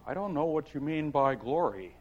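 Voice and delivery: lightly voiced young girl; puzzled Alice. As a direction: ask it as a confused child. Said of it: "Alice said".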